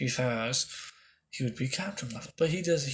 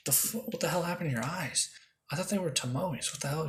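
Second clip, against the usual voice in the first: higher, startled disbelief; shocked; 5 semitones higher than usual. Retold or imitated. A girl shocked at his changed eyes, higher startled disbelief. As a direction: react like she can't believe her eyes. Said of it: "She goes".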